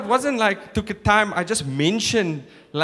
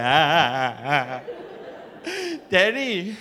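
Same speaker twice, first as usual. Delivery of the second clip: put-on child voice; 3 semitones higher, slower than usual. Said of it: "My son's like".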